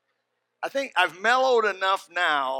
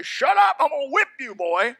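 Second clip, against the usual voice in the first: put-on high, loud yelling at the boy; angry yell; 9 semitones higher, 7 dB louder than usual. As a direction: bark it at the crying kid. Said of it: "I say".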